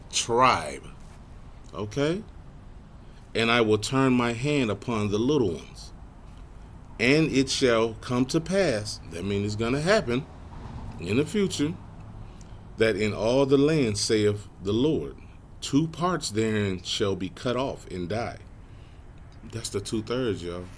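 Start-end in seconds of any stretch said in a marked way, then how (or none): 3.3-9.0 measured, emphatic verse reading; scripture reading. Real, not acted. Preacher reading on to the congregation, deliberate and emphatic. 12.8-18.4 slow, weighty verse reading; scripture reading. Real, not acted. Preacher reading about two parts cut off, slow and measured. Reads scripture aloud to congregation.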